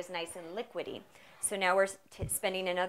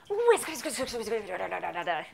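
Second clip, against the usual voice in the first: Sarah Jessica Parker. Retold or imitated. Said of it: "Sarah Jessica Parker is like".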